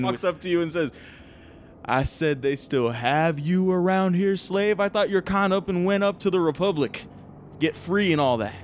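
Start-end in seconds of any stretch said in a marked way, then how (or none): 1.8-8.5 put-on old human. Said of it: "this old human".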